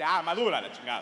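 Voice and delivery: normal talking voice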